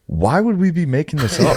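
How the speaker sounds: high, laughing protest; laughing disbelief. Retold or imitated. Retelling the waiter argument, laughing high disbelief. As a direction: laugh through the outrage at the waiter.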